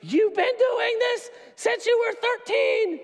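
high, loud, slow mock scolding; hammed-up God stretching out eight plus two; exasperated God. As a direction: play God as the fed-up dad. God's exasperated reply.

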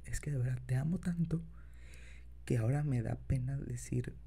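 put-on soft, low boyfriend voice; tender, shy lover, quiet; incubus. Continues confession to partner.

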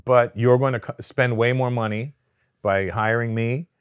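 slow, deliberate retold counsel; lawyer's measured advice. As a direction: spell it out slowly like an advising lawyer. Retells lawyer laying out advice.

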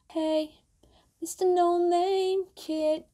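high, slow whispered quote; singing along in a whisper; whispered lyric. Acted. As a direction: breathe the line like a secret.

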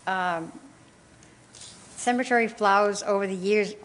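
talking while chewing gum; words around a wad of gum. Real, not acted. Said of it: "excuse the gum".

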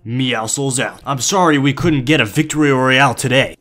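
measured robotic game assistant; put-on bot. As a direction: speak like a programmed henchman bot. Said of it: "your henchman boss".

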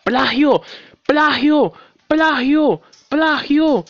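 loud, high mocking cry, repeated; shouting plagiarism. Real, not acted. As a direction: yell it out like an accusation. Crying plagiarism at the game. (gritando ¡plagio! en tono de burla)

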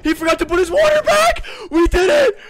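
high, loud ecstatic shouts; victory screaming at the team; ecstatic shouting. Real, not acted. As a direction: scream with triumph.

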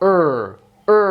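"অ" as a long er, between o and a; long central vowel. Shown as a demonstration. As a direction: draw out "অ" as er. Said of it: "মানে পেঁচানো টাইপের".

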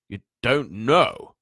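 slow, loud, rising disbelief; stunned giant. A narrator's reading. Giant realises the boy is unaware, stunned. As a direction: let it climb like a question.

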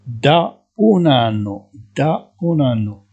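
each syllable drawn out, slowly; slow dictation. Shown as a demonstration. Teacher to Moroccan students, slowly dictating Italian. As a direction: spell it out slowly for learners. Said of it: "teacher dictating".

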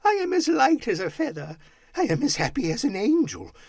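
high, loud jubilation building to whoops; giddy Scrooge. A narrator's reading. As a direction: shout greetings to all the world. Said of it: "laughing and crying in the same breath".

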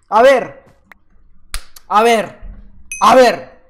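loud mock-indignant demand; hammed-up outrage. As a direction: call him out, playfully stern. Demanding explanation after a kill.

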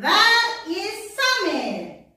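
"Where is Samir?" slow, stressing "Where"; slow model answer. Shown as a demonstration. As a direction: say "Where is Samir?" slowly, hit "Where". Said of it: "Yes, very good".

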